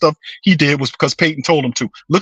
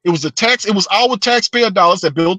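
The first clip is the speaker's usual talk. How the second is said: hammed-up lecture to a spoiled kid, pitched way up; fed-up fan scolding the team; 8 semitones higher than usual. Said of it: "You like".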